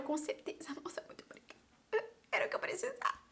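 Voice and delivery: whispery, soft, overly grateful thanks; feigned gratitude. Retold or imitated. Student thanking secretary for hated tea, whispered fake gratitude. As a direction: gush thanks in a hushed whisper.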